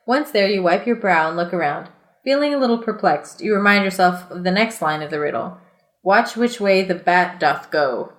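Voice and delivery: steady read-aloud storyteller voice; reading the adventure book aloud to friends, measured narration; story narration. A narrator's reading. Reads gamebook narration aloud.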